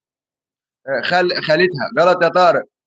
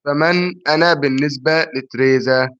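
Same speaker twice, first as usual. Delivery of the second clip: slow riddle reading; 3 semitones lower than usual. Shown as a demonstration. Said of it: "ما سمعتش السؤال؟".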